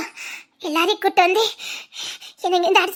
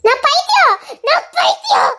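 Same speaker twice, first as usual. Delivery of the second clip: manic repetition; 7 semitones higher, slower than usual. Acted.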